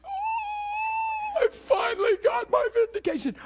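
high, loud hammed-up gloating shout; mock triumph. Pastor mocking the gloat he never did, loud high shout. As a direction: crow over a victory in mock glee. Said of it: "I wasn't going".

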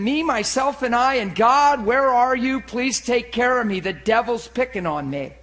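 hammed-up "poor me" prayer; self-pitying plea. Preacher mocking someone praying about the devil, self-pitying plea. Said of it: "That is you saying".

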